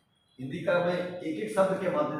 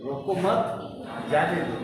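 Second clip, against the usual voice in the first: "रोको मत" as one phrase, pause, then "जाने दो"; pause after मत. Shown as a demonstration. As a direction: put the comma break after "मत". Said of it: "क्यों लगाए कामा?". ("रोको मत" साथ बोलें, फिर रुककर "जाने दो")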